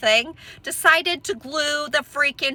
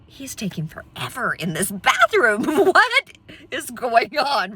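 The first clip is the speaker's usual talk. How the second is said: exasperated; slower than usual. Retold or imitated. Impatient thoughts while waiting for husband.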